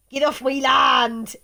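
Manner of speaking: mock angry farmer shout off his land; hammed-up Somerset farmer shout; farmer yelling. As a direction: bark it like a grumpy farmer.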